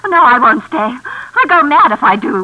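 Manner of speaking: loud, panicky outburst, slowing on the last words; a frightened woman begging to get away; frightened refusal. Acted. Susan refusing to stay, loud and panicky.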